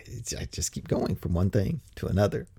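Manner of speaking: whispered to himself, trailing off; muttered aside under the breath. Real, not acted. Rambling aside, unvoiced.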